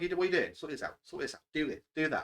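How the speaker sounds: condescending nitpicker. Acted. Player imitates a perfectionist friend ordering them about, mock condescending. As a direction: lightly play a perfectionist issuing fussy orders. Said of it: "it'd be so condescending".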